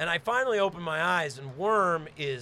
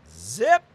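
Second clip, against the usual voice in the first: zipper sound; 5 semitones higher, 8 dB louder than usual. Retold or imitated.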